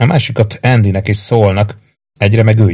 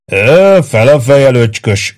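patronising laughing voice, louder; 4 semitones higher, 5 dB louder, slower than usual. A narrator's reading. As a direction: laugh down at the little private. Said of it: "nevetett Bloom". (nevetve, lekezelően)

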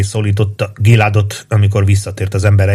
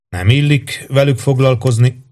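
mildly prim, higher-pitched reply; measured, reserved; 5 semitones higher than usual. A narrator's reading. Young priest rebukes his abbot for eavesdropping, measured. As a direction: answer with restraint, pitched a little up. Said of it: "felelte kimérten Serbitár".

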